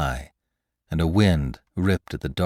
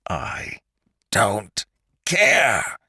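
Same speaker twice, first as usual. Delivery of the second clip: mild narrated scream; a restrained, drawn-out yell; Lantry screaming as he chokes McClure; 3 semitones higher, much slower than usual. A narrator's reading. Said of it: "screamed Lantry".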